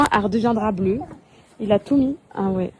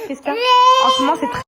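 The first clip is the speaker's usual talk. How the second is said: high cooing; 13 semitones higher, 4 dB louder than usual. Real, not acted. Mother coos high to her crying baby. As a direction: coo up high to calm the little one.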